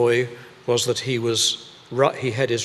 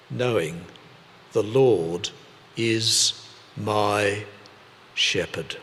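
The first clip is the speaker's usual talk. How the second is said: word by word; 3 semitones lower, slower than usual. Shown as a demonstration. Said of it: "Would you like to do it with me".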